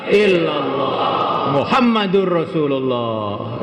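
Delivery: slow, drawn-out declaration of faith; solemn creed recitation. Real, not acted. Preacher proclaims the one thing of use, solemn and drawn out. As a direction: stretch each syllable of the creed.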